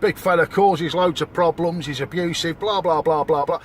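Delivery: parodying an outraged headline; mock news report. Mocking the news coverage of a drunk holidaymaker in a hammed-up newsreader voice. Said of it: "It's all over the news".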